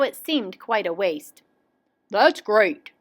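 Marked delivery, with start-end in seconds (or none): 2.1-2.9 mildly gleeful exclamation; a touch of glee; cried with glee. A narrator's reading. Willoughby sees the top come off, mildly gleeful. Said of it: "cried with glee".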